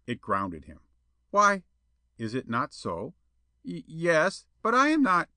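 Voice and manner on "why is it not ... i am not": high, loud stammering protest; flustered indignation. A narrator's reading. Suitor spluttering at Jetta's refusal, indignant. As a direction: splutter in offended surprise.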